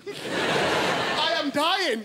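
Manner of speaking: laughing. Real, not acted. Laughing too hard.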